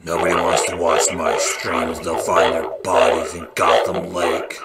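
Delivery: a hint of a gruff caped crusader brooding over his stream; mock-serious hero voice, barely shifted; lightly voiced Batman. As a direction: brood like a vigilante, only lightly put on.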